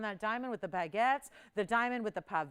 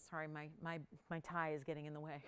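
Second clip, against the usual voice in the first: laughing; 7 semitones lower, 9 dB quieter than usual. Real, not acted. Tie in the way, laughs.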